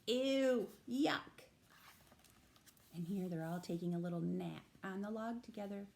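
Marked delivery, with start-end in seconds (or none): 0.1-1.4 disgust. Acted. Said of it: "These words, though, say".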